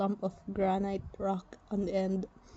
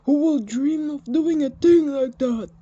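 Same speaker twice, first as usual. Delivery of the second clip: whining disbelief; 6 semitones higher, 9 dB louder than usual. Acted. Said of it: "Antef whined".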